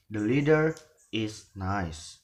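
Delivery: "leader" rising, a pause, "nice" falling; rise-fall intonation. Shown as a demonstration. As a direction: lift "The leader", then drop "nice". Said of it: "is rising".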